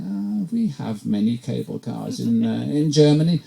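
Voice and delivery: lightly put-on German accent; imitated German. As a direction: imitate an unimpressed German passenger. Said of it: "to a couple of Germans".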